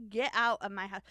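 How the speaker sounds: loud, mock-indignant order; mock outburst. Voicing the cook to the investigator, mock outburst. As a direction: throw him out, loudly but playfully. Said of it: "that's not what she sounded like".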